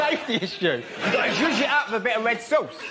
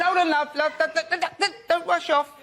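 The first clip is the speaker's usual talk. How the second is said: calling out; 9 semitones higher than usual. Retold or imitated. Diner stopping the waitress, high repeated call. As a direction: call her back, pleading.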